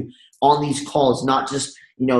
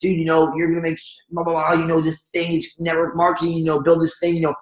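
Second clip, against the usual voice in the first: pushy rambling pitch. Retold or imitated. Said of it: "You don't wanna puke on them".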